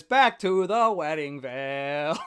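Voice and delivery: slow, drawn-out line as a stage manager. Retold or imitated. Host quoting the film's stage manager, slow drawn-out call. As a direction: lightly act a stage manager, stretching the words. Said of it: "the stage manager says".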